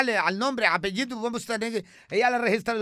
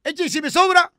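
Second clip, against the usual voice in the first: much higher, louder, comic woman's voice; high put-on character voice; 8 semitones higher, 6 dB louder than usual. Comic character voice chatting with the host. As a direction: play it high and bright like a radio sketch character.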